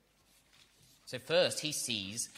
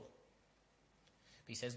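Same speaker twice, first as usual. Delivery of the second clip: breathy hush; 13 dB quieter, much slower than usual. Acted. Hushed aside before quote.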